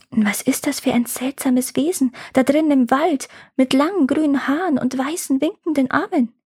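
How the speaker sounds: put-on a child staring into a strange forest; wondering girl.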